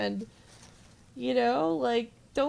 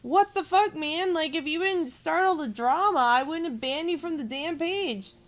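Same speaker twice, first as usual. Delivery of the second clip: higher, louder fed-up outburst; exasperated retort; 4 semitones higher, 3 dB louder than usual. Retold or imitated. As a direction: snap back at him in disbelief. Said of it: "And I'm just like".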